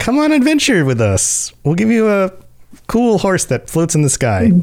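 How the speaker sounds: high, sweet, wide-swinging pitch.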